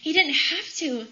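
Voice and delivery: very high, ecstatic cry of praise; re-enacted screaming for joy, loud at first; joyful screaming. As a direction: shriek it out in joy, then ease down a little. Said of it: "screaming on the phone".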